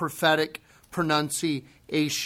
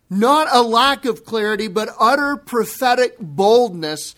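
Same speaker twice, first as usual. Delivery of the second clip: raised, high preacher's cry; impassioned crying out; 5 semitones higher, 5 dB louder than usual. Shown as a demonstration. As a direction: cry it out with bold, emphatic conviction. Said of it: "It is the strongest of emotion, crying out".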